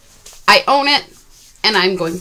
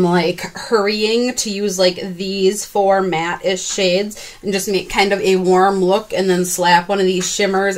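slowed drawling talk. Real, not acted. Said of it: "I don't know why I'm talking like this".

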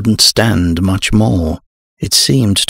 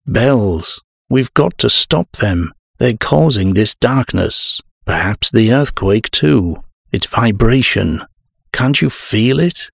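higher-pitched, pressing plea; urgent insistence; 4 semitones higher than usual. Acted. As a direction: urge them to act, agitated. Urgent pleading amid earthquake.

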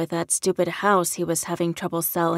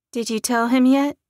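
higher, louder anxious question; nervous redhead; 6 semitones higher, 6 dB louder than usual. A narrator's reading. Nervous redhead to the boyfriend, anxiously asking. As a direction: voice the redhead high and uneasy. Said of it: "her voice shaking".

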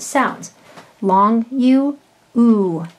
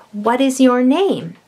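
asking a question; 3 semitones higher, slower than usual. Shown as a demonstration. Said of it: "that's a question".

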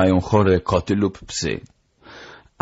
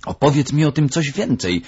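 high, eager doctor's voice; pitched-up excitement; excited; 9 semitones higher than usual. A narrator's reading. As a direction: beg eagerly to hear more. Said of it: "rzekł doktor podniecony".

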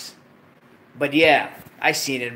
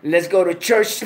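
stifling laughter; 4 dB louder than usual. Shown as a demonstration. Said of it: "I can't even say it with a straight face".

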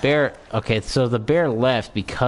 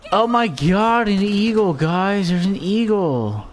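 high, drawn-out alarm at spotting an eagle; freaked out; 6 semitones higher than usual. Retold or imitated. Player mimicking a character who spots an eagle, freaked out. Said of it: "someone who got that freaked out about an eagle".

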